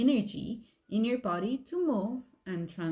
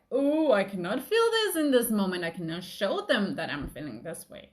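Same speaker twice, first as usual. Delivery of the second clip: inner panic; 3 dB louder than usual. Retold or imitated. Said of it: "I'm like".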